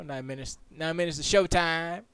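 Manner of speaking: loud, high showtime call; hyped announcement. Pretend. Streamer hyping the pre-show countdown. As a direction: announce it like a host.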